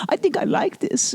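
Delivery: high unvoiced whisper of a pleased man; whispered submissive. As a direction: breathe it, secretly pleased. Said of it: "he's just like".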